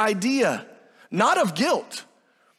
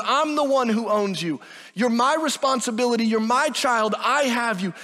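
exhortative; 3 semitones higher than usual. Acted. Jesus asking the woman where her accusers went, exhortative. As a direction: urge her gently but firmly, no sarcasm. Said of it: "I think they're exhortative".

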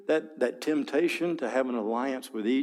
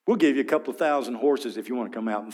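taunting arrogance; faster than usual. Acted. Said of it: "here's this taunting arrogance".

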